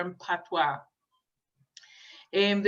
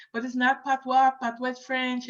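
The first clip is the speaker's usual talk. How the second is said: mock-indignant, pitched higher; imitating objectors; 6 semitones higher than usual. Lecturer imitating critics who object to the name, mock indignant. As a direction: play the purist who insists patois is French. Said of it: "because sometimes people say".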